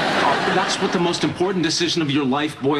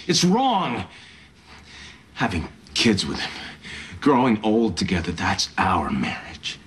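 love confession. Acted.

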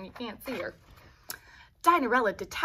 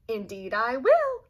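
mock laugh; 5 dB louder, slower than usual. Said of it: "laughed the dinochus".

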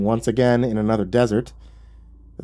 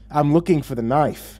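higher, testy retort; shot back; 5 semitones higher than usual. Acted. Narrator digging, retorting testily to devil. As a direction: fire back an irritated answer. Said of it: "I shot back at him".

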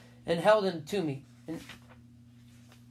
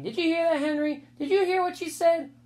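high, delighted teasing; gleeful; 10 semitones higher, 4 dB louder than usual. A narrator's reading. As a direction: crow over her mistake. Peter laughing at Sheila.

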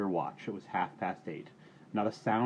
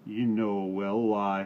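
slow, sullen retort; grudging slow reply; 6 dB louder, slower than usual. Acted. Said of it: "returned the third voice sullenly".

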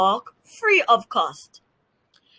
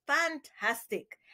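hushed delight; 6 semitones higher, 10 dB quieter, slower than usual. A narrator's reading. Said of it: "exclaimed Parson Drunkrow".

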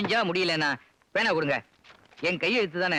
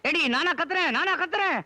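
indignant shout; 4 semitones higher than usual. Acted. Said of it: "திடீர்னு ஏன் இப்படி கத்துறீங்க".

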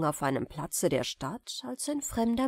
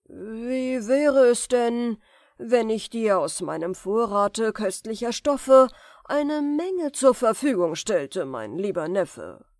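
tempting offer; 3 semitones higher, 5 dB louder than usual. Acted. The sorcerer tempts his nephew with fine cloth, sly.

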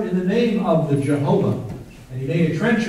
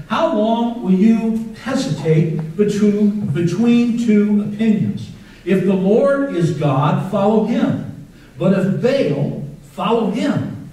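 Elijah's rebuke; 4 semitones higher, 4 dB louder, slower than usual. Retold or imitated. Preacher voices Elijah's rebuke.

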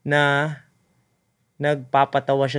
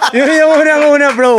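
laughing; 9 semitones higher, 9 dB louder than usual. Real, not acted. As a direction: talk through a laugh, higher and louder. Laughing while explaining. (tumatawa habang nagsasalita)

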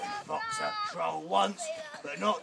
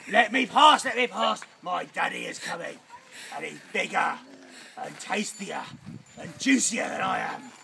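louder, pleading goat voice; loud goat brother; 5 dB louder than usual. Retold or imitated. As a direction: call it out boldly as the bigger brother. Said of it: "And he said".

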